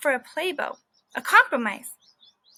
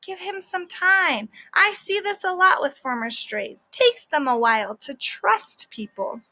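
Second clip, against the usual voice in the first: advising teacher; 5 semitones higher than usual. Acted. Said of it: "said the teacher".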